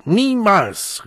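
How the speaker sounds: high, loud interrupting cry; called-out refusal. A narrator's reading. The Savage cuts off the bursar, crying out. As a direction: burst in with a cry. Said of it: "rief der Wilde".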